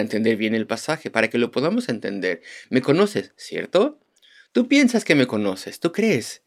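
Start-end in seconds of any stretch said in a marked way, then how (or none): 2.7-6.4 ironic. Retold or imitated. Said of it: "la forma correcta de interpretarlo".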